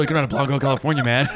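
fast, laughing jab; laughing tease. Real, not acted. Friend teasing about meeting a blonde girl, laughing. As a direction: rattle it off while laughing.

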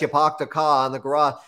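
lightly done Boston accent, dropped r's; a quick mock Boston accent demo. Shown as a demonstration. Explaining the Northeast accent to the host, light Boston accent. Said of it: "you talk like this".

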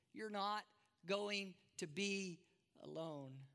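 slow tender promise. Acted. Jesus slowly and softly promises Thomas he is not alone. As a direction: stretch it out as a soft vow. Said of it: "And Jesus says".

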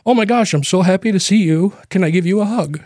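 mildly gushing quoted welcome; delighted greeting. Retold or imitated. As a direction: retell a cousin's glad hello, lifted in pitch. Retold cousin's delighted greeting.

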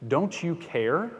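desperate plea. Retold or imitated. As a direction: beg him to wake and help. Disciples crying out in the storm.

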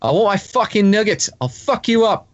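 put-on a drunk Aussie yelling in an Australian accent; mock drunk Australian demanding nuggets. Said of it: "Gotta say it in an Aussie accent".

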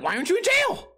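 very high, astonished question; incredulous. Acted. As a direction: squeal the question in disbelief. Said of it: "in my mind, I'm like".

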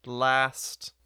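slow, mock-solemn ceremony; solemn ritual voice. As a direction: intone it like a ritual. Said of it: "I'll be like".

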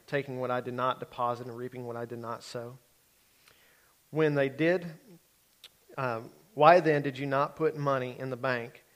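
measured, earnest Bible reading aloud; scripture reading. Acted. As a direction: read the parable to the congregation.

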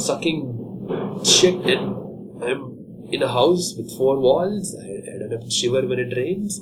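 lightly voiced dog, humble and thankful; a touch of a rescued dog's gratitude; grateful dog. Dog thanking the family that fed it. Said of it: "They're like".

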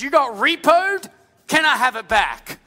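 high, cheeky asking voice; cheeky woman. Pretend. Woman asking the king for her land, cheeky high voice. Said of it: "she went to the king".

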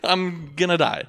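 woman sure the driver will kill her; mock panic. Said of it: "she's freaking out and stuff".

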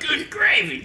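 high, loud mock-goofy voice; goofy exclamation. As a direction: squeak it out like a dopey kid.

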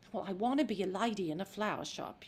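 crunched and fretting; worried Eliza. Shown as a demonstration. Actress demoing the wrong, stressed Eliza, subdued Cockney. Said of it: "As opposed to".

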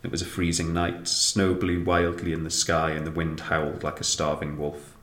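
measured storybook narration; story reading. A narrator's reading. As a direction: read it like a bedtime story. Reads story aloud.

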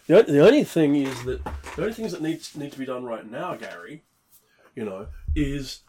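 distant, off-mic voice; speaking while walking away from the microphone; far from mic. Real, not acted. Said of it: "sorry, I walked away from the microphone".

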